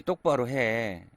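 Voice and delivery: elder scolding a youngster, mock stern. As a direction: bark it out like a strict elder, hammed-up. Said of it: "라고 혼내는 거 말고".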